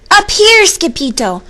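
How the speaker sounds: high, loud call from above; high-pitched Chihuahua holler. A narrator's reading. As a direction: holler down to a friend. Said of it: "hollered the Chihuahuas".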